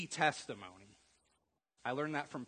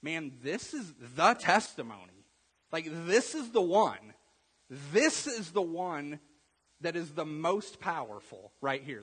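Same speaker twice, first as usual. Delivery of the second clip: excited realization; 4 semitones higher, 8 dB louder, slower than usual. Retold or imitated. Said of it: "you're like".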